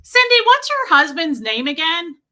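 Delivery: high, loud oblivious holler; imitating shouting phone talker. Customer hollering to Cindy behind a paying client, mock shout. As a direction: shout into the speakerphone, mocking her. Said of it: "I'm shouting at you guys right now".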